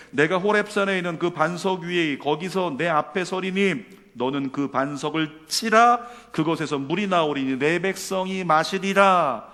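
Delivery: firm, loud recitation; scripture reading. A narrator's reading. Preacher reading Exodus to the congregation, firm proclamation. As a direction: read it out as God's weighty word. Reads the verse aloud.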